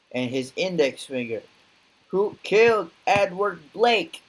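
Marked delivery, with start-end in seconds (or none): 2.1-4.2 loud, higher demand, stress on killed; demanding shout. Acted. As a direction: bark it at the bar crowd. Interrogation, repeated louder.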